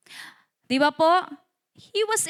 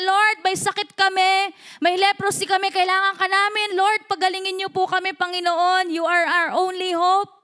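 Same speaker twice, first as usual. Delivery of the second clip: raised-pitch mock cry for help; desperate plea; 4 semitones higher than usual. Lepers calling to Jesus for healing, desperate plea. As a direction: plead to the Lord, urgent but not screaming. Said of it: "Sumisigaw sila out of their desperation".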